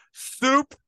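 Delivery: loud, high call across the store; sudden high, loud holler; yelling. Retold or imitated. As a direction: yell it out like a cashier. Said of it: "they yell".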